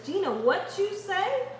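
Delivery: bright teasing call to Gina; quick teasing shout-out to Gina; playful call. Pretend.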